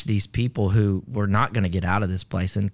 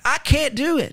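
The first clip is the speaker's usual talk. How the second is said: much higher, frightened protest; scared girl. Retold or imitated. Girl at the burning window refusing to jump, high scared voice. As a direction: squeak it out, too scared to jump.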